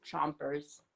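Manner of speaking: talking through fake teeth. Real, not acted. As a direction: mouth full of fake teeth. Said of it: "Sorry, I got my fake teeth in".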